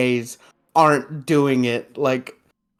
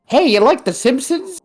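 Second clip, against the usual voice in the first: Bart voice; 11 semitones higher, 4 dB louder than usual. Retold or imitated. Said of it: "she's like".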